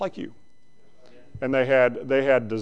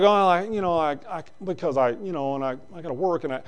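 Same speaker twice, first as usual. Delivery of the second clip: softer, trailing, fumbling excuse; mock a member squirming out of church; mumbled excuse; 6 dB quieter than usual.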